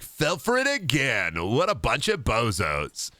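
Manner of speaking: smug gloating. Retold or imitated. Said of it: "DreamWorks smirk on".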